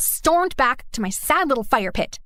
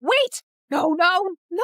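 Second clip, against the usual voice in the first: dismayed shout; 6 semitones higher than usual. Acted. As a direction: shout as the fire dies. Rain puts out her fire.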